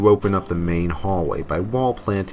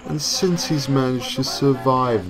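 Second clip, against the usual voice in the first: slow, louder, distorted devil voice; demonic voice; 2 semitones higher, 3 dB louder, slower than usual. Acted. The devil explaining Hawk's punishment, slow demonic voice. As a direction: lay out the cruel sentence with relish. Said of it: "The devil continued".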